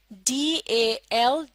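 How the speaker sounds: very slow, each letter apart; slow spelling. Shown as a demonstration. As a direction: spell out the second part. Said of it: "आप गौर से सुनिए". (धीरे-धीरे अक्षर बोलना)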